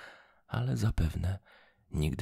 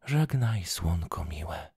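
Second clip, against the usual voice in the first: calling farewell; 5 dB louder, slower than usual. Acted. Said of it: "zawołała i wyciągnęła rączki".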